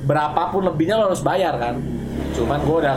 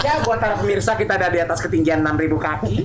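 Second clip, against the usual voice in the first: nasal pinched-nose pilot announcement; pinching nose; 5 semitones higher than usual. Pretend. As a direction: talk holding your nose shut. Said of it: "Harusnya sambil tutup hidung".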